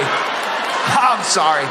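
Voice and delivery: very slow, stretched "sorry"; drawn-out apology. Real, not acted. Comic apologising to the crowd for the accent, drawn out. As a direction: drag out the apology.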